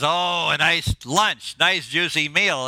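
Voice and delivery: lightly voiced fish, lingering over the words; slow, drawn-out relish at the bait; tempted fish. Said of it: "He says".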